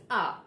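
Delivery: A as long "ah", r silent; falling "ah"; British R. Shown as a demonstration. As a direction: open the mouth for A, no tongue curl. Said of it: "So the pronunciation is A".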